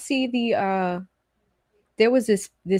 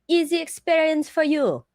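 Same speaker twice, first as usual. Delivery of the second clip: put-on Vietnamese accent; 5 semitones higher than usual. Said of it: "You know, like".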